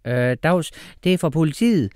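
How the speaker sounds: a hint of confusion; mild bewildered officer; confused policewoman. A narrator's reading. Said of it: "sagde den kvindelige politibetjent forvirret".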